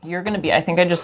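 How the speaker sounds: sputtering mid-sip; spitting out a drink. Real, not acted. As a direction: talk after spraying a drink. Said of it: "sprayed water everywhere".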